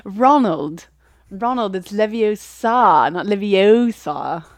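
slow, loud, correcting Hermione; Hermione impression. Hermione correcting Ron's spell, slow loud bossy voice. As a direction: scold Ronald like a know-it-all pupil. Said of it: "my Hermione impression".

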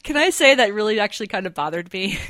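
amused, half-laughing protest; laughing as she speaks. Real, not acted. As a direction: get it out through a laugh. Laughing while objecting to the accent.

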